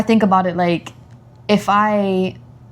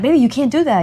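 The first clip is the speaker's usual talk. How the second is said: higher-pitched mild scolding, without yelling; slightly raised voice; 5 semitones higher than usual. Retold or imitated. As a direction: imitate a parent raising the voice a little. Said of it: "raised my voice a little bit".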